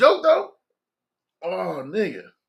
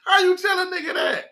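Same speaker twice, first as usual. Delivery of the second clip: laughing through words; 9 semitones higher than usual. Real, not acted. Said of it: "I cried laughing".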